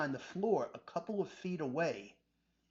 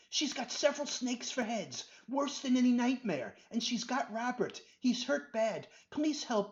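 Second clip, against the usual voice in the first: higher, urgent panicked plea; frantic pleading; 5 semitones higher than usual. Acted. Benji begging Doctor Rubin to save Robert, frantic. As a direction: pour it out in panic.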